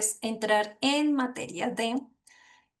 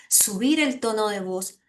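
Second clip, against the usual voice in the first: lightly raised voice, fuller and lifted; voz que sube. Shown as a demonstration. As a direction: lift the voice a little, as a playful demo. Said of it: "diversidad de tonalidad en nuestra voz". (subiendo un poco la voz)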